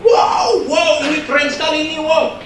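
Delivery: mock amazement, high and quick; hammed-up impressed fan; awestruck gushing. Imitating audience dazzled by wordplay, gushing.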